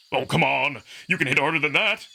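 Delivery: brash wolf fighter inviting punches; cocky young wolf. Acted. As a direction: egg him on with a grin. Amicus goads Marco.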